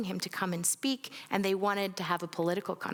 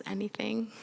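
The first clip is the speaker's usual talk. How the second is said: whisper; 3 semitones higher than usual. Real, not acted. Inviting group to share.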